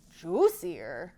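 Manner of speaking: loud greedy troll; troll tempted by a bigger meal; shouting troll. Acted. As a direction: shout him away. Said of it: "shouted the troll".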